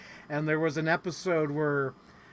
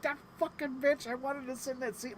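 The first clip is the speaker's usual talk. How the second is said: mock outrage; 9 semitones higher, 6 dB quieter than usual. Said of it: "I'm like".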